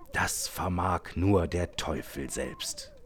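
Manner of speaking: a hint of a terrified digger; frightened. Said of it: "der völlig verängstigten Männer".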